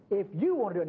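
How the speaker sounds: "you" hit harder in "if you want to do it"; stress on you. Acted. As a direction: push the word "you". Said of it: "Now notice the emphasis is on you".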